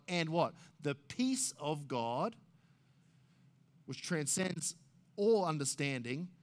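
measured pulpit reading; scripture recitation. Acted. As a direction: proclaim the verse with weight. Reciting Philippians four.

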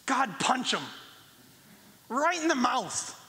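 high-pitched, emphatic prayer, punched phrase by phrase; mock fervent prayer. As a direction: pray for violence with hammed-up zeal. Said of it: "Have you ever prayed anything like that".

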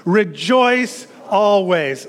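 very slow, drawn-out words with a pause between; leading group recitation. Shown as a demonstration. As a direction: stretch each word so it sinks in. Repeating verse slowly with congregation.

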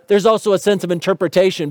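ordinary talk

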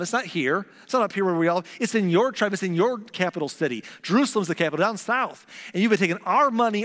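fed-up nation. Retold or imitated. The northern tribes telling the king they're leaving, indignant. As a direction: protest like tired, angry subjects.

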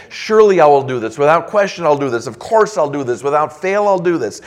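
firm, punched promises, quick and loud; emphatic. Shown as a demonstration. Preacher voicing God's promise, emphatic and loud. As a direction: drive home every surely and without question. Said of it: "It's emphatic".

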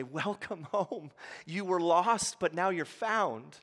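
slow, tender welcome home; gentle welcome. Acted. Jesus welcomes a lost listener home: a slow, gentle voice. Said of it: "And Jesus will say".

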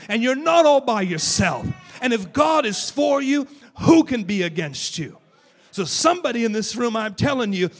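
loud fervent preaching shout. Acted. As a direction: preach it at full force to the crowd. Preaching at full force.

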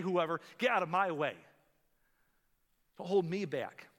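a loud, impatient know-it-all; selfish anger. Pretend. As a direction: sweep everyone out of your path. Voicing selfish angry attitude.

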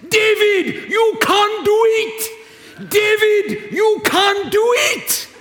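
high, loud, slow rallying shout; loud, high encouraging sideline call; cheering coach shout. Retold or imitated. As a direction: cheer a teen on from the sideline, all in. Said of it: "His favorite line was this".

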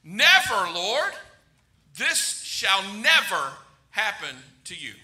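NEVER punched out, then measured pauses; emphatic rebuke. Retold or imitated. Peter rebuking Jesus, emphatic on NEVER. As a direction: rebuke firmly, leaning hard on "never". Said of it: "he begins to rebuke him".

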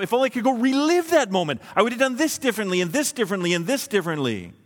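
high, rushed wishing it undone; acted regret. Preacher voicing someone wishing to relive a failure, rushed regret. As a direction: race through your regrets, starting high and coming down. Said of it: "Or you think to yourself".

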